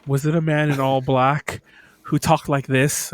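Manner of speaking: slow, deliberate attempt at a villain's voice; attempted Keith David. Asking kids about the masked man, attempted Keith David. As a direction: lightly imitate Keith David, drawing words out. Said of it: "I mimic his voice".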